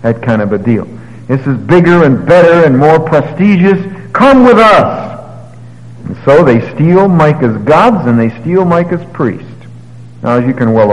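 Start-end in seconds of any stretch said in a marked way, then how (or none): 4.1-5.0 high, louder come-along call; coaxing invitation. Acted. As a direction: beckon him to come along. Danites tempt the priest.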